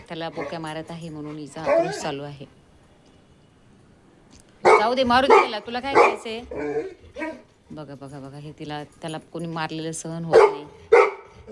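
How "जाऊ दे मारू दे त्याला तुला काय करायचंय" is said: high, loud coaxing to the dog; high coaxing pet voice; pet talk. Real, not acted. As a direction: shrug it off for the dog's sake. Talking to the upset dog.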